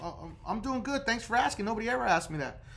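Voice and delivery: mildly taken aback, stumbling start; hesitate, then answer in mild surprise; acted pleasantly surprised agent; kinda shocked. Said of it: "Bill's gonna be kinda shocked".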